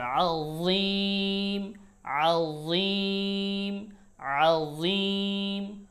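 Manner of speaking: আযীম very slow, soft heavy dh; soft but heavy. Shown as a demonstration. Teacher repeating the sound for students. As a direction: stretch আযীম out, soft yet thick. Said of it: "তবে মোটা হবে".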